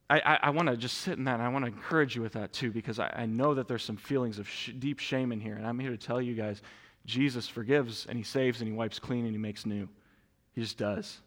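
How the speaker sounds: a quiet, tender assurance to the room; hushed preaching. Real, not acted. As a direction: drop to a soft, close voice. Soft intimate sermon passage.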